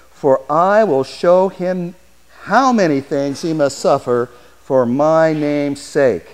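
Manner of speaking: slow, measured voice of the Lord. Acted. The Lord commanding Ananias, slow and measured. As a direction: deliver it slow and weighty. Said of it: "the Lord says".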